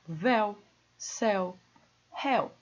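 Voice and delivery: "véu, céu, réu" one by one, open E gliding to U; open diphthong. Shown as a demonstration. Teacher lists open-diphthong examples, open timbre. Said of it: "ditongos abertos terminados em el".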